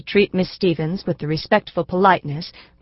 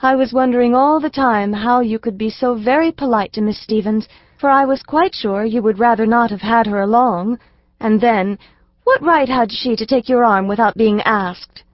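put-on a young girl's voice, lightly raised, a touch of indignation; lightly indignant little girl; 5 semitones higher than usual. Elsie to her papa, mildly indignant little girl. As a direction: let a little girl's mild outrage show.

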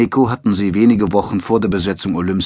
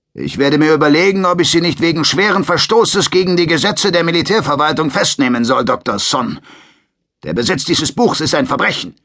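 higher, louder, lightly voiced bullying soldier; threatening sergeant; 7 semitones higher, 4 dB louder than usual. A narrator's reading. Sergeant threatens to arrest the doctor, mock menacing. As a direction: lord it over him with legal threats.

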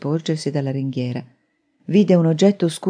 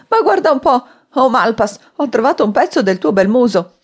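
high-pitched, amused jeering; laughing mockery; 7 semitones higher, 4 dB louder than usual. A narrator's reading. Man taunting Malpas over his lost false chin, laughing mockery. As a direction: jeer through laughter, voice pitched up. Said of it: "lo fece sbellicar dalle risa".

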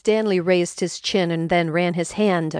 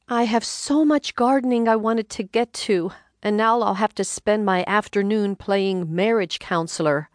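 higher, put-upon wife's voice; complaining wife; 3 semitones higher than usual. Acted. Wife complaining to husband about her afternoon, lightly higher voice. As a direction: grumble about the lost gardening.

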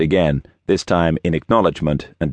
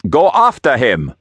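put-on higher, forceful accented command; shouted order; 7 semitones higher, 4 dB louder than usual. A narrator's reading. Gang boss sends a henchman after the priest, shouted order. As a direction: send them running after him.

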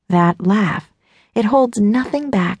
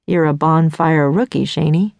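lower, lightly voiced teasing guy; teasing young man; 5 semitones lower than usual. Male love interest teases narrator.

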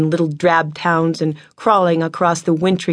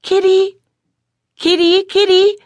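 high, louder coaxing call up the pole; calling the kitten; 5 dB louder than usual. A narrator's reading.

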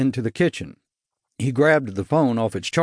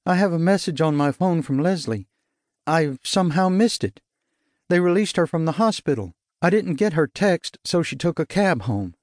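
shaken confession; 5 semitones higher than usual. Acted. Helen, trembling, realises she missed Leslie's message.

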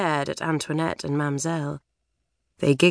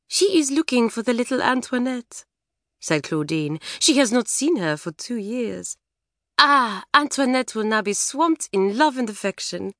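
put-on French girl voice; 3 semitones higher than usual. Claudine's French voice.

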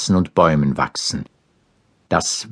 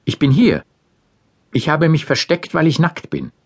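timid Adam voice; 8 semitones higher than usual. A narrator's reading. Adam answers God, ashamed.

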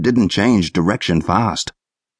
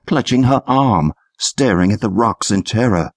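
plain reading voice

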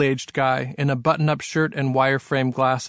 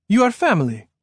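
put-on higher-pitched French-accented man; 7 semitones higher, 4 dB louder than usual. A narrator's reading. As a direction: introduce yourself in a French accent. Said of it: "in a French-sounding accent".

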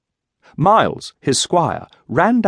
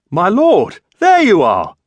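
high, loud hail; eager servant's call, pitched up; 8 semitones higher, 6 dB louder, slower than usual. A narrator's reading. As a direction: call to your master from behind. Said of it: "came a voice from someone behind".

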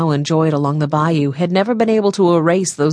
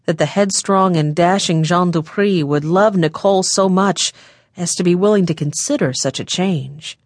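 usual speaking voice

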